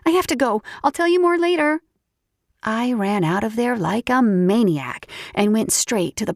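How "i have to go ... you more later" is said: excited. Acted. Hurrying off excitedly.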